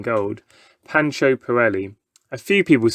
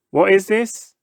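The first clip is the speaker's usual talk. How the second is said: showman; 8 semitones higher than usual. A narrator's reading. Pancho asks boy.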